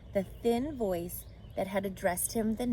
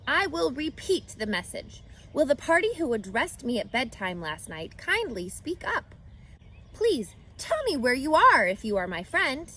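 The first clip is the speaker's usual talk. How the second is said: higher, pleading announcement; eager pig voice; 5 semitones higher than usual. Acted. Wilbur calling to his hidden friend, pleading. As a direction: beg the friend to answer.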